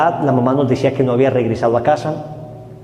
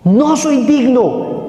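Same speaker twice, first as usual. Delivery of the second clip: tearful cry; 10 semitones higher, much slower than usual. Retold or imitated. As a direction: drag each word out in tears. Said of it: "bañado su rostro en lágrimas".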